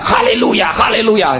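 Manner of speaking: retold shouting. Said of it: "那帮弟兄怎么就喊".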